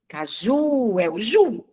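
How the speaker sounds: caju with the final JU drawn out; slow "caju", leaning long on the "ju"; stress on JU. Shown as a demonstration. Teacher showing students the tonic syllable of caju, stressed on JU. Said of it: "que eu pronuncio com mais intensidade".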